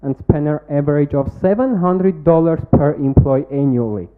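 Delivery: rehearsed, projected pitch-deck delivery; confident startup pitch read to a jury; pitch presentation. Acted. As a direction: sell the product to the judges like a memorised pitch.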